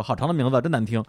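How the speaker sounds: a hint of a lively little girl. Little girl teasing Gu about his name, lightly lively. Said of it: "小姑娘就很活泼地说".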